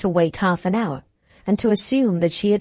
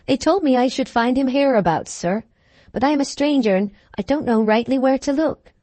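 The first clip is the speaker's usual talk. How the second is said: higher, brisk servant voice; deferential groom; 5 semitones higher than usual. Acted. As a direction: report respectfully as a groom, pitched up. Groom explains to the gentlemen.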